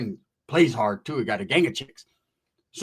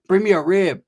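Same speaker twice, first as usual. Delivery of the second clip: mock demanding friend; 3 semitones higher, 6 dB louder than usual. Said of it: "Who says that?".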